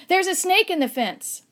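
put-on high, loud alarm cry of a scared boy; shouting. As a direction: yell the warning at the top of your voice. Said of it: "they shouted".

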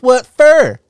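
high, loud innocent Groot. Retold or imitated. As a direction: squeak it out like Groot. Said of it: "Groot looks at it and goes".

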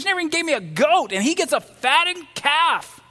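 put-on jealous older son griping to his father; resentful outburst. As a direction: spit out the grievance quickly. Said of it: "He's angry".

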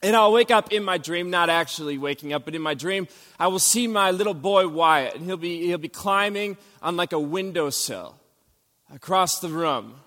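usual speaking voice

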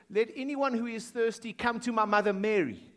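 mock wrong version. Preacher mocking a misquoted verse for the congregation, teasing. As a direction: poke fun at the invented wording. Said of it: "it didn't say".

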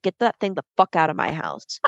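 a hint of a bossy big sister; mock sister order.

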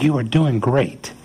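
slow, gentle encouragement; encouraging. Retold or imitated. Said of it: "this moment of encouragement for Peter".

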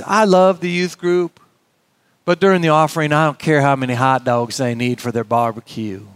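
a hint of a South Carolina accent, slowed on the first words; lightly imitating a Southern church elder's accent. Elder complains to pastor about the offering, light South Carolina accent. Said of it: "I don't do a South Carolina accent very well".

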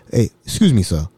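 lightly imitated African accent; polite African man, lightly voiced. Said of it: "Mbutu was an African".

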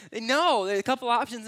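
high, loud snap back to the point; loud, high-pitched sudden correction. Real, not acted. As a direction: jump in with a sharp no. Punchline after sarcastic example.

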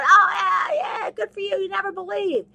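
high, loud mocking shout; mocking Satan. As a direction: taunt them as a gloating devil. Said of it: "Satan's going".

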